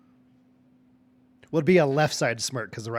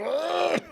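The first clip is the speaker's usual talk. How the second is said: high strained gasp of a wounded foe; haggard gasp. Acted. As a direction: act out a pained, ragged breath. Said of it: "breathing so just haggard".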